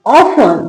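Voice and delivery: often said as "off-un", no T; falling model often, T left out; silent T in often. Shown as a demonstration. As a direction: say often with F running into the last syllable. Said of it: "टी का sound नहीं आएगा".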